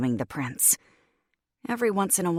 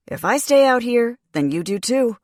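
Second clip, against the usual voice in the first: louder, higher, stubborn demand; Corbin's firm insistence; 7 semitones higher, 8 dB louder than usual. A narrator's reading. Corbin refusing to leave, raised insistent voice. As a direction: plant your feet and insist. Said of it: "Corbin drawled".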